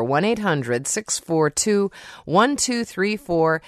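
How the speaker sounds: slow, careful reading of the phone number. Shown as a demonstration. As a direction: say each digit slowly so listeners can write it down.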